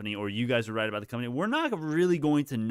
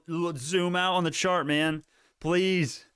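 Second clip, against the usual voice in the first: drawn-out, higher-pitched exasperation; exasperated plea; 6 semitones higher, much slower than usual. Real, not acted. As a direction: plead with panickers, stretching the words. Exasperated plea to panicking viewers.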